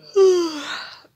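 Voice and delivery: big loud yawn, high at the start; real yawn. Real, not acted. Tired vlogger breaking off her meal recap, yawning. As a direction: let a long yawn escape. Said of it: "J'arrête pas de bailler".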